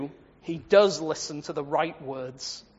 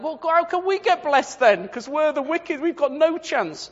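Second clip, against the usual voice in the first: mock despair; 8 semitones higher than usual. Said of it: "And we're like".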